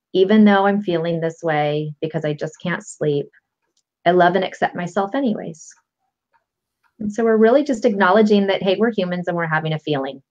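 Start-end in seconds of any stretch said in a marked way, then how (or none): 0.1-5.7 demo setup statement. Shown as a demonstration. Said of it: "end it with something along the lines of".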